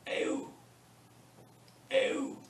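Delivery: Ew leaning on its final "oo"; stress on ooh. Shown as a demonstration. Teacher showing students where emphasis falls, Ew stressed on "oo". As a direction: glide through Ew and land on the "oo". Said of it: "The emphasis is on ooh".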